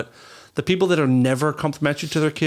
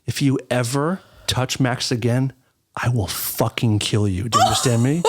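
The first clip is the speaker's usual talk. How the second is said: low threat; 3 semitones lower than usual. Retold or imitated. Threatening the bully.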